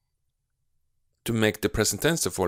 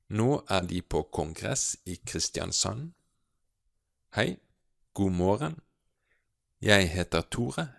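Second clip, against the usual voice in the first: slow, careful read of a dialogue; taking each Norwegian line slowly. Shown as a demonstration. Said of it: "I will read slowly through the whole thing".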